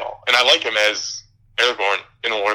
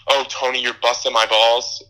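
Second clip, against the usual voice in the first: mock Italian. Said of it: "when they do stupid, like, shit".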